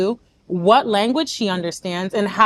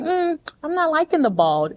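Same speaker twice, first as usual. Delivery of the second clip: gently put, higher-pitched feedback; softened criticism; 6 semitones higher than usual. Acted. Friend softening haircut feedback for a sensitive person, gentle. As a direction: break it gently, lifting the pitch. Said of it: "Let's say you're a little softer".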